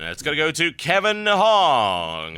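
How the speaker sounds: slow, drawn-out winner announcement; showman announcer. Acted. Host announcing the postcard winner to ladies and gentlemen, drawn-out showman delivery. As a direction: stretch it out like an awards host.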